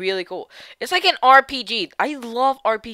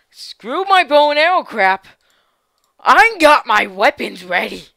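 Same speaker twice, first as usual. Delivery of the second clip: villain gloat; 2 semitones higher, 9 dB louder, slower than usual. Acted.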